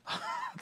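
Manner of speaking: brief, high, soft laugh; quick self-amused giggle; short laugh. Real, not acted. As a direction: laugh lightly at your own antics. Laughs at own performance.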